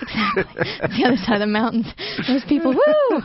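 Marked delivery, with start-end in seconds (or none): 2.3-3.2 mock hick holler. Mocking people over the mountains.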